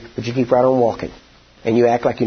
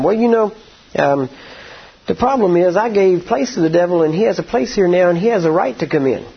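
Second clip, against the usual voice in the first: rising preacher's fervour, higher and insistent; preaching; 5 semitones higher than usual. Acted. Preacher urging the congregation to stand against the devil, fervent preaching. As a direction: preach it hard, pitch climbing. Preaching builds to full force.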